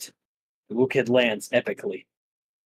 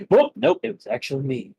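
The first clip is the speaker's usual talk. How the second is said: gotcha; 7 semitones higher, faster than usual. Acted. Monkey tricks the dragon.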